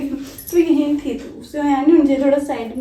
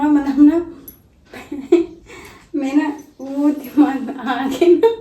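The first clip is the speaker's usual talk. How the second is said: laughing; 2 semitones higher, 5 dB louder than usual. Real, not acted. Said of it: "हंसी आ रही है मुझे guys".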